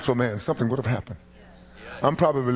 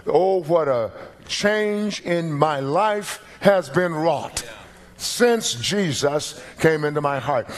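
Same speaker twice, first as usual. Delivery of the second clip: testimony voice; 2 semitones higher, slower than usual. Pretend. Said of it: "to show you".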